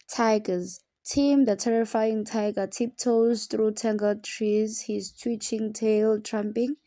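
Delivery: put-on slow, deliberate recital of a children's poem; slow storybook poem reading. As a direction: read each t word slowly, like a storyteller.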